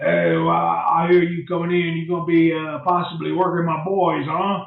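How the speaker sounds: very rough, gruff-sounding voice. Retelling how you met a man at his desk about working with his boys, imitating his real rough voice. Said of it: "he has that real rough, rough voice".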